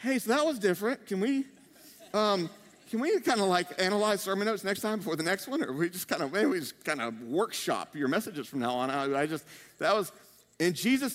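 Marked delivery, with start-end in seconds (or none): 0.0-8.9 mock-diplomatic disciple, halting and careful; tactfully hesitant. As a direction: tiptoe round an awkward criticism. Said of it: "how diplomatic are the disciples".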